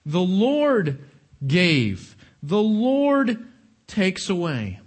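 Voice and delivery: slow, weighty "Lord"; stress on Lord. Shown as a demonstration. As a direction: lean on "The Lord" each time. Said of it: "it's emphatic in the text".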